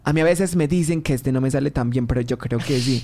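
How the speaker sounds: put-on lightly done Colombian paisa accent. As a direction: chat like someone from Medellín.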